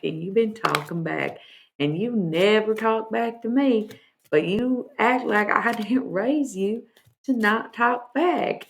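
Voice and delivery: stern nana lecturing a grandkid; channeling grandma. Acted. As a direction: deliver grandma's scolding message. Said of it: "That's her message".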